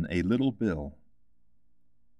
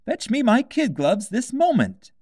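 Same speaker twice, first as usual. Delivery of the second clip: angry White Rabbit; 5 dB louder than usual. A narrator's reading. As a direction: snap orders at the maid. Rabbit ordering.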